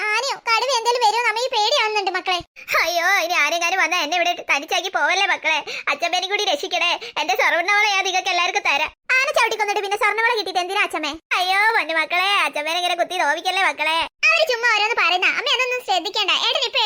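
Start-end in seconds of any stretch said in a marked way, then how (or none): 2.8-8.9 put-on old grandma begging. Grandma voice pleading from pit. 11.4-14.0 put-on old grandma hurt.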